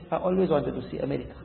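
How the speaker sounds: casual, understated answer; relaxed. Retold or imitated. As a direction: imitate a prisoner who won't be rattled. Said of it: "he was so relaxed".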